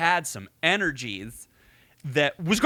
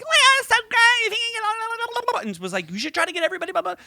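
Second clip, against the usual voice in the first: much higher, louder, gushing put-on voice; gushing casting director; 4 dB louder, much faster than usual. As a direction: ham up an overexcited talent scout on the phone. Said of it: "she was like".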